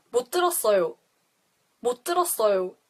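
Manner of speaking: at everyday talking speed; teacher's natural-speed model. Shown as a demonstration. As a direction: say it the way a Korean would say it in conversation. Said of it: "original speed and nuance of how you would really say it".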